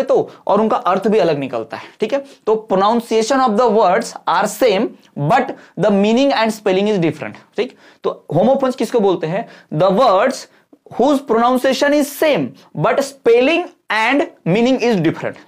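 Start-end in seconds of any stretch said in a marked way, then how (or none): 2.7-7.6 slow, deliberate definition read out; slow dictation. Shown as a demonstration. 9.7-15.4 slow and a little raised, word by word; slow dictation. Shown as a demonstration. Teacher dictating definition.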